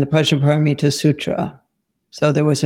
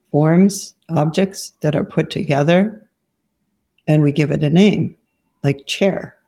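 guided meditation. Real, not acted. Teacher guiding students to let go of form, guided meditation. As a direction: lead them gently inward, leaving long silences.

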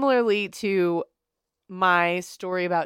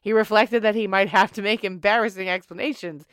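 put-on old-timey voice. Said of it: "use the old-timey voice".

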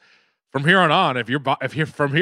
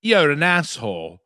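put-on British accent; slower than usual. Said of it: "you came up to me and you said".

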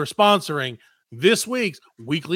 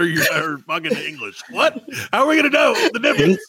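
mock exasperation. Exasperated comic outburst.

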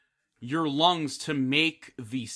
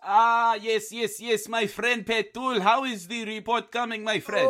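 higher put-on voice, a hint of a foreign accent; hammed-up coworker; 7 semitones higher than usual. Coworker greets Petul asking about the report. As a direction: sing it up as the friendly boss.

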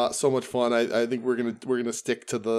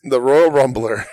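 ring announcer; 8 dB louder, slower than usual. Pretend. Introducing wrestler nickname.

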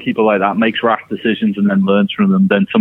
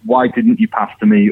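mock whiny complaint; 11 semitones higher than usual. Shelvey complaining to teammates.

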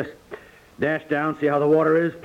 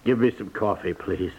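chilled, fading; 5 semitones lower than usual. Acted. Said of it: "you are blue with cold".

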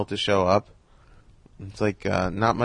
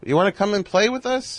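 imitating Carl Reiner; 11 semitones higher than usual. Carl invites him to dinner.

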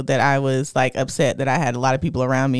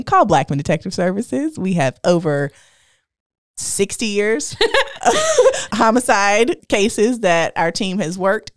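playful infomercial pitch, a little raised; mock ad read; 5 semitones higher, 3 dB louder than usual. Podcast host plugging a detective agency to listeners, mock ad read. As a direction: sell it like a homemade commercial. Delivers a tongue-in-cheek ad read.

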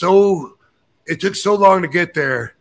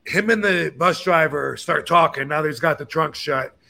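usual speaking voice

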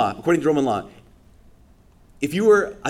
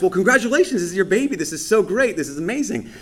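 put-on delight; 7 semitones higher than usual. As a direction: gush over the baby to play dumb. Faking delight to grieving couple.

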